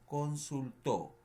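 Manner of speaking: "consultó" stretched out slowly, the last syllable "tó" stressed and falling; drawn-out "consultó" with the stress on its final "tó"; slow dictation. Shown as a demonstration. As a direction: spell out "consultó" slowly for the class. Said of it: "Por ejemplo".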